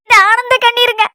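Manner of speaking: crying happy tears while talking; tearful happiness. Acted. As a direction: explain through sobs that it is joy. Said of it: "நீ முதல்ல அழுகை நிறுத்து". (ஆனந்தக் கண்ணீரோடு விம்மும் குரல்)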